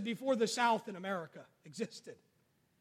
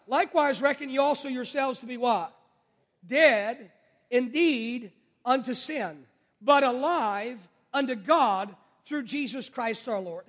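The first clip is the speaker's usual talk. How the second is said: slow, deliberate verse reading. Shown as a demonstration. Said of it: "Come on, church, wake up".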